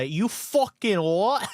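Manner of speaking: slow, mock New York "You fucking what?"; hammed-up New Yorker, slowed; mock New York accent. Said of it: "followed up by".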